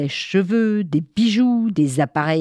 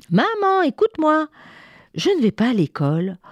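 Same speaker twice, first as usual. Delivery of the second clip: put-on child protesting; 7 semitones higher than usual. Léo interpelle maman.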